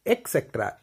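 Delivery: एक्सेट्रा with k for t, falling; common mispronunciation. Shown as a demonstration. Teacher repeating what people say, common mispronunciation. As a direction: say एक्सेट्रा as "ek-sektra". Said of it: "ई सी करके बोल देते हैं".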